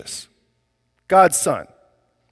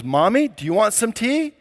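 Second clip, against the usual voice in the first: put-on little girl; 6 semitones higher than usual. Little girl offers mom tea.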